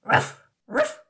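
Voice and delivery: unvoiced, breathy "Ruff, ruff!"; barked ruff. A narrator's reading. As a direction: bark it in a hoarse breath. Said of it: "Oliver barked".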